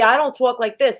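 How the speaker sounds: light New York accent demonstration. Shown as a demonstration. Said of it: "if you're from New York".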